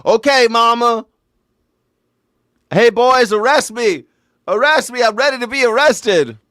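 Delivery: put-on high, loud, eager childish voice; eager mock son. Shooter calling to the guards, high and eager.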